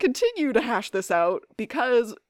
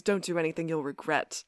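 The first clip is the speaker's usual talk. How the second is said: put-on low, quiet British-accented warning; Klaus impression; 4 semitones lower, 7 dB quieter than usual. Villain warning two men at the bar, British Klaus impression. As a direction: warn softly, like a British villain. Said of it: "a good Klaus, I would say".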